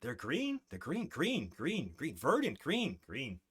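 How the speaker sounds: singsong creature. Acted. Creatures sing-song about green.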